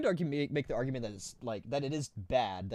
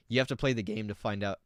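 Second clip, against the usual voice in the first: voice crack. Real, not acted. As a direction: voice cracking mid-sentence. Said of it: "voice crack".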